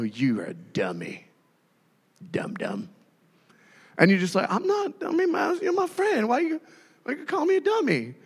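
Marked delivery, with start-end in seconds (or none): 0.0-2.9 low, soft grumbled insult; mock foul mood. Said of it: "they're in a bad mood". 4.5-8.1 high-pitched wounded protest; mock hurt. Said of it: "it hurts us so bad".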